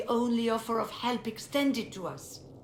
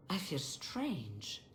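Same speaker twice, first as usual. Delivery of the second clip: dazed and unsettled; 3 semitones lower, 8 dB quieter, much slower than usual. Acted. Fiona realizes something is wrong.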